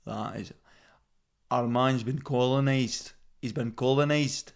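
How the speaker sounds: put-on appalled Scottish local; Scottish accent. Scots lamenting their man's been colonised, Scottish accent. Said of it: "And they go".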